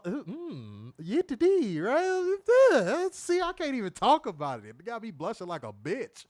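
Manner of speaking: imitating a woman slowing her voice to flirt; slow feminine cadence. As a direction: ham up a seductive drawl. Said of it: "she slowed her cadence down, real feminine like".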